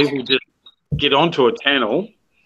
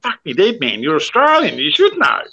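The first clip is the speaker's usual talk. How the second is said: higher-pitched Australian disbelief, rising at the end; mock exasperation; 4 semitones higher than usual. YouTuber scolding clueless millennials about slang, mock exasperated. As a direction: exclaim in comic, incredulous exasperation. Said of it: "Now I'm thinking".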